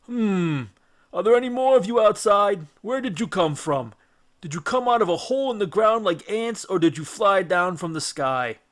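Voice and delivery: a loud, booming, curious giant; giant's voice. Acted. Cyclops quizzing the trapped Greeks, booming and curious. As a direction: prod the tiny men with questions.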